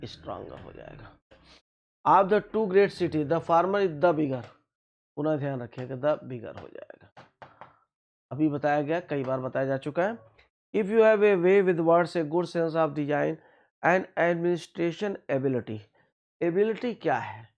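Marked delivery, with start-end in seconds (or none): 2.0-4.4 slow sentence reading. Shown as a demonstration. Reads the exam sentence. 10.7-15.8 slow sentence reading. Shown as a demonstration. Reads the exam sentence.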